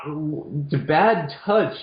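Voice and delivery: slow, high mock dismay; mock horror. Reacting to the naked knight scene with mock horror. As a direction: drag it out in pretend alarm. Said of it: "And I'm like".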